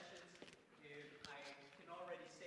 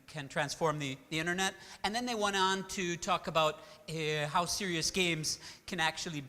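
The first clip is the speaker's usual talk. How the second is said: booming, much louder voice to fill the room; 17 dB louder than usual. Real, not acted. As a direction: project loudly to the whole hall. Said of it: "I have kind of a loud voice".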